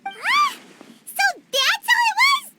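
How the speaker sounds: high, bright gasp of realization; sudden realization. Acted. Paimon realizing the mystery is solved, surprised. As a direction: it all clicks at once, voice jumping up.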